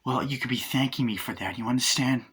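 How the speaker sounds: lightly put-on New York voice; New York accent. Hitman chiding his driver, hint of New York accent. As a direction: slip into a bit of New York. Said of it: "I just went all New York".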